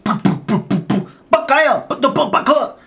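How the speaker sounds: exaggerated Asian accent gibberish, high and loud; mock Asian accent. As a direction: imitate the old Asian landlord's accent on the phone. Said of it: "I probably shouldn't do the accent".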